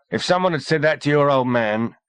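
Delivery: a touch out of breath; wheezing. A narrator's reading. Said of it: "wheezed Slowcock".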